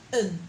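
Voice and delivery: short weak un sound; murmured un. Shown as a demonstration. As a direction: demo the murmured vowel. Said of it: "You hear the sound un".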